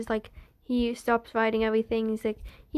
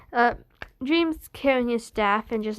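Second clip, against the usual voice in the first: usual speaking voice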